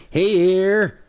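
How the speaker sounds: put-on high, loud old prospector voice. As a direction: yell it like a crusty old gold miner. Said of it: "he played an old prospector".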